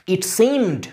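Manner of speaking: it seemed, with the weight on seemed; stress on SEEMED. Shown as a demonstration. Teacher testing where stress falls, seemed stressed after a light it. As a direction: lean on seemed, falling at the end. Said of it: "এটা সিমেতেই জোরটা পড়ছে".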